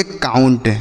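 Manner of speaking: "काउंट" with ou sounded as "आऊ"; ou read as au. Shown as a demonstration. Teacher reads out the spelled word, "काउंट" with au. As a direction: model "काउंट" with an au glide. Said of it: "इसे हम पढ़ेंगे".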